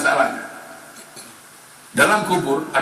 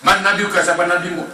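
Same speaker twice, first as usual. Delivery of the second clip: higher, commanding question; questioning angel; 4 semitones higher, 5 dB louder than usual. Acted. Angels questioning the dead in the grave, higher.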